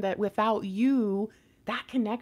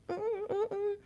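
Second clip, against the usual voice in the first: imitated humming; 11 semitones higher, 7 dB quieter than usual. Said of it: "I'm kinda like".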